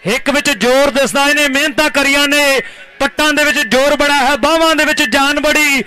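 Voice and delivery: rhyming, chanted play-by-play praise; kabaddi commentary. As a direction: hype the raider in rhythmic verse.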